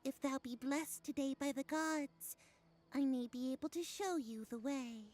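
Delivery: grand mystic fortune teller; oracle. Acted. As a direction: intone like a solemn seer. Vendor voice, archaic oracle speech.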